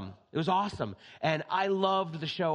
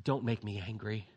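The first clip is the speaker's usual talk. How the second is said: menacing Banner quote; 7 semitones lower, 5 dB quieter than usual. Retold or imitated. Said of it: "we used to say this".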